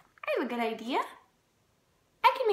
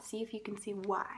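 whisper; 5 semitones lower, 8 dB quieter than usual. Real, not acted. Aside to child about odd book.

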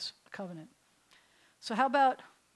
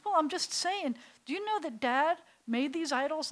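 put-on teen Avram; 5 semitones higher than usual. Teen Avram lectures customer.

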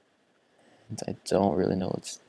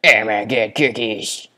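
excited; 7 dB louder than usual. Real, not acted. Excited looting.

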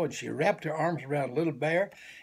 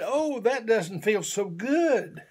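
mild disappointment; 6 semitones higher, 3 dB louder, slower than usual. Acted. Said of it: "He said".

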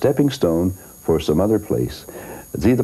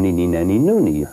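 kiddie singsong. Retold or imitated. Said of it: "sounds like a kid's program".

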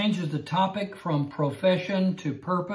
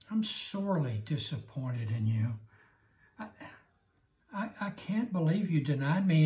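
hammed-up scolding, sinking to a whisper at Peter; mock disappointed rebuke; mock disappointed Jesus. Jesus pretending to scold Peter, hammed-up, trailing off. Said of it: "Not. he did not say".

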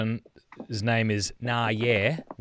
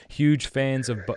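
breaking into a laugh mid-read; reading through a laugh; 3 semitones higher than usual. Real, not acted. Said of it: "I didn't mean to laugh".

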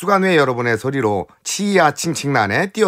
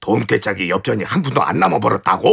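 lightly voiced Sim Bongsa in dialect; a touch of dialect stage acting, slightly lower; pansori spoken narrative; 4 semitones lower than usual. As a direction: play a put-out husband in a pansori scene. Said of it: "경상도 안일이 판소리를 엮어보면은".

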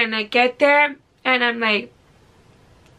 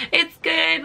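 small, higher voice; high-pitched reply; 5 semitones higher than usual. Retold or imitated. Patient answering nurse while going under, high-pitched reply.

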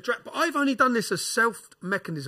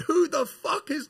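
imitating another inmate; 9 semitones higher, 4 dB louder, much slower than usual. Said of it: "black dude who going".

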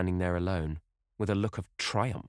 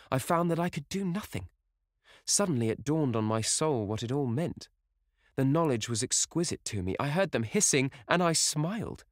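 put-on higher, impassioned young actress; rapturous Sibyl; 5 semitones higher than usual. Sibyl declaring love to Dorian, rapturous. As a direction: pour out her love breathlessly.

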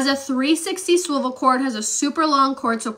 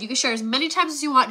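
fast; faster than usual. Real, not acted. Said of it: "like I said".

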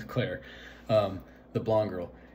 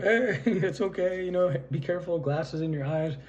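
imitated reassurance; 5 semitones higher than usual. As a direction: imitate a crowd calming someone. Voices partygoers soothing the fallen man.

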